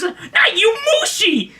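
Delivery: lady passenger. Retold or imitated. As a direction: mimic a woman calling over from behind. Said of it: "this lady behind him turns".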